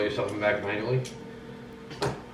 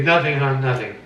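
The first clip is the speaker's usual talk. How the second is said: imitating wife; 8 dB louder, slower than usual. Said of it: "and you say".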